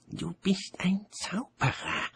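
high, slow urgent whisper; hissed whisper. A narrator's reading. Mort hisses to the old wizard, an urgent whisper. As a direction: hiss it secretly in his ear. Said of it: "zischte er".

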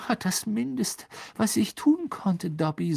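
easygoing, a touch amused; grinning. A narrator's reading. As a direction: say it through a grin. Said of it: "sagte Harry grinsend".

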